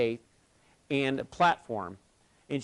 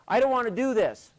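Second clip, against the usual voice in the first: put-on a higher, small voice of a frightened kid; imitating scared boy; 11 semitones higher, 7 dB louder than usual. Frightened boy on the cable answers the coach, high and small. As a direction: sound like a boy who wants down.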